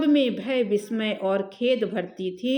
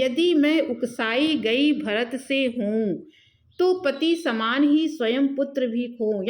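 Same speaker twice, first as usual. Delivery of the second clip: verse recitation. Acted. (लय में धीमा कविता-पाठ)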